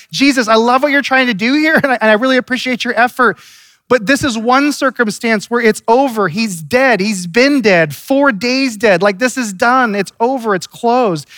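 a touch of Martha's fed-up protest; Martha objecting. Acted. Martha voiced objecting to Jesus.

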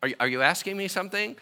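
usual speaking voice

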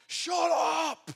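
re-enacted high-pitched yell at the kids; retold scream. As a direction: scream it like a dad losing it, in retelling. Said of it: "then I just scream".

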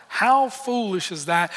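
rising, questioning disbelief; incredulous. Real, not acted. Preacher asking the room about the servant, incredulous rise. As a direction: toss it out to the congregation. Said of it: "I read that verse and I think".

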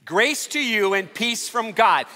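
slow, deliberate "Grace to you and peace from God"; slow unison recital. Shown as a demonstration. Pastor leading congregation to say greeting together, slow and deliberate. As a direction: lead the room word by word, slowly. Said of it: "Say it with me".

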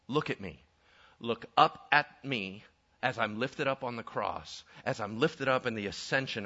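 low-pitched, earnest invitation; solemn saviour's appeal, building in force; Jesus. Acted. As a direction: plead steadily, phrase upon phrase. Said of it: "And Jesus said".

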